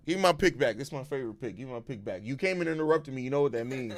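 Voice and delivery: playful hushed dad voice. Real, not acted. Dad talking softly to son.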